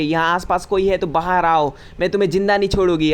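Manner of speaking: put-on girl at the hot spring yells a warning, loud and fast; shouted threat. Bathing girl threatens hidden intruders, mock shouting. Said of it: "ज़ोर से चिल्ला के बोलती है".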